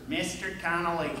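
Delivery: measured imitation of a gym teacher; lightly voiced formal summons; distinctive teacher voice. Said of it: "how he used to say that".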